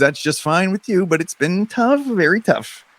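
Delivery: animated read-aloud, punching the dramatic words; story narration. A narrator's reading. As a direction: narrate a sci-fi adventure with playful drama. Reads the game story aloud.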